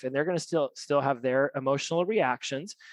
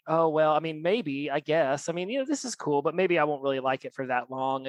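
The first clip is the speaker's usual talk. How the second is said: mildly sheepish backpedalling; ashamed, hesitant doubt. Retold or imitated. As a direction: waver as if talking yourself out of it. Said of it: "almost wanted it to be ashamed".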